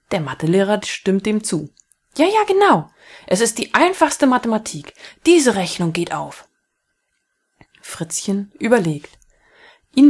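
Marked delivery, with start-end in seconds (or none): 2.2-6.5 high, louder burst of agreement; excited teacher chiming in; eager math teacher. Acted. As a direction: jump in keenly like a maths nerd.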